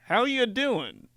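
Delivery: high, slow smooth greeting; smarmy LinkedIn dad. Retold or imitated. LinkedIn dad greeting, high and slow. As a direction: greet like a perfect guy. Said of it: "He's like".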